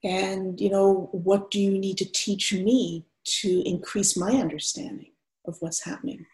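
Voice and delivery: undefended, open invitation to talk; relaxed, open. Acted. White therapist asking a client of color, relaxed and open. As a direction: ask openly, with room for pauses. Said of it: "there's a sort of quality of undefendedness".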